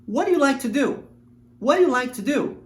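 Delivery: "what do you like to do?" run together as "whaddaya like ta do"; linked-up question. Shown as a demonstration. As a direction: join the words, let them blend. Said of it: "Repare na junção das palavras". (palavras ligadas em "what do you like to do?")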